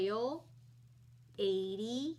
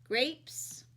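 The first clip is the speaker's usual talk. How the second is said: whispered; 4 semitones higher than usual. Real, not acted. Teacher guessing the picture to herself, whispering. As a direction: whisper "grapes" under the breath.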